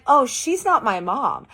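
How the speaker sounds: high, slow giggly denial; mock giggling protest; laughing. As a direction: laugh it off brightly. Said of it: "I start laughing like this".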